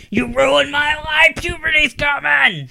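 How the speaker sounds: put-on high, slow, loud teen-girl shout; a friend mock-shouting as a ten-year-old daughter at her dad; mock bratty ten-year-old. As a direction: yell it like a melodramatic kid. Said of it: "she'd be like".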